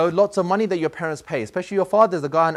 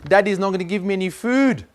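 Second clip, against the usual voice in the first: mock crying like a baby; 4 semitones higher than usual. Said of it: "crying like a baby".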